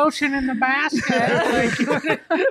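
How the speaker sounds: high, slow, eerie villain impression; drawn-out creepy movie-killer line, hammed up. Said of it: "Silence of the Lambs?".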